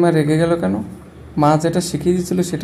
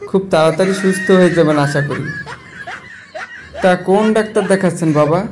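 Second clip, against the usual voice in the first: chuckling while he talks; laughing. Acted. Son-in-law laughing as he wishes his sick father-in-law well. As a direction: laughs through the cheerful wishes.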